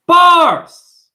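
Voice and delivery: sudden high shout of triumph; hype shout. Acted. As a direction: yell it out like a rap hype man. Hyping her own rhyme.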